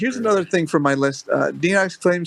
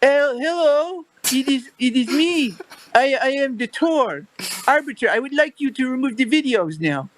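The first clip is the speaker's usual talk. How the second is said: Denox doing Tor voice; 9 semitones higher than usual. Acted. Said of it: "try to sound like Denox doing the Tor voice".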